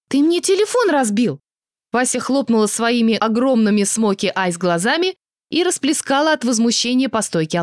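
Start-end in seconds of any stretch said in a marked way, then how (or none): 0.1-1.4 shocked he smashed her phone; indignant cry. Acted. Vasya to Elias over the broken phone, indignant cry.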